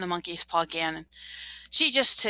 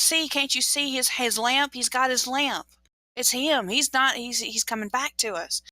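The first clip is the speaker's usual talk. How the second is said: higher-pitched, excited insistence; desperate hopeful mother; 5 semitones higher than usual. Acted. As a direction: plead that he really is coming home, pitched up. Mother insists son is returning.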